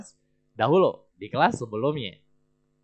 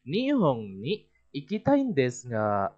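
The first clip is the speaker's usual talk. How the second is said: Nihon ni ikitai desu ga kept flat and level, slow; slow, level tune without a rise; flat intonation. Shown as a demonstration. Teacher telling students the line stays flat. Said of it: "Datar ya".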